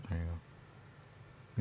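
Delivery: very slow, soft whispered words; a drawn-out hushed whisper. Pretend. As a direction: breathe it out slowly as a secret. The phrase repeated as a whisper.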